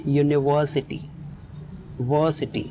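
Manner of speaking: "यूनिवर्सिटी" with the weight on "वर"; stress on VER. Shown as a demonstration. Teacher isolates "वर्सिटी" to show stress on "वर". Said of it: "ई पर stress होगा".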